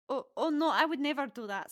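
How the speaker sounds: eager-to-please youngster; nervous protest. Acted. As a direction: stammer an earnest denial. Nervous boy protests his innocence.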